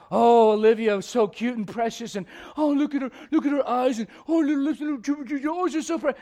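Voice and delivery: hammed-up gushing over a cute baby; mock baby-cooing. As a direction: coo over an adorable baby in mock adoration. Imitating adults gushing over a baby.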